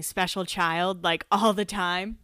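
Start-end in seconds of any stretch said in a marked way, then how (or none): 0.0-1.0 put-on quoting special child. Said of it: "him saying".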